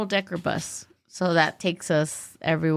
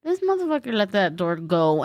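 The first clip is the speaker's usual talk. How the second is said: usual speaking voice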